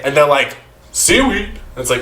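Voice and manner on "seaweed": high-pitched mock disbelief; appalled, high-pitched surprise; incredulous question. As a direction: balk at it in a high voice. Acting out disbelief at seaweed.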